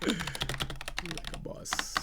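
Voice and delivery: high, slow, breathy "Like a boss"; playful high brag. Pretend. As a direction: stretch it out, teasing and high.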